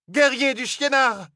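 high, slow war cry; shouted alarm. A narrator's reading. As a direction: cry out the enemy's name in alarm. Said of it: "cria la plus jeune". (cri d'alerte aigu et lent)

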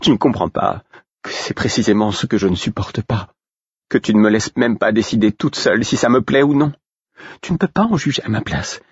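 high-pitched angry reproach; indignant outburst; furious. A narrator's reading. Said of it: "siffla-t-elle furieuse".

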